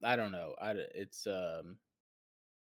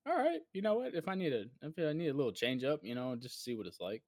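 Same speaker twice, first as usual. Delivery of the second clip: upbeat inner voice; 4 semitones higher than usual. Retold or imitated. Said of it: "I was definitely like".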